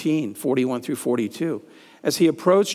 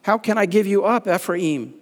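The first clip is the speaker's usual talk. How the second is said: put-on higher, louder anguished cry to a wayward child; distressed plea; 6 semitones higher, 3 dB louder than usual. Preacher voicing God pleading with Ephraim, distressed. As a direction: plead in raw distress, pitch climbing. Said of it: "God's response, distress".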